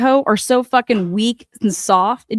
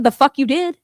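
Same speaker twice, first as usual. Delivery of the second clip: scoffing denial; 3 semitones higher than usual. Retold or imitated. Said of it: "I said".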